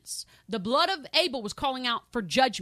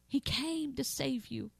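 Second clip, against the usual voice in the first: soft appeal; 5 dB quieter than usual. Real, not acted. Softer repeat.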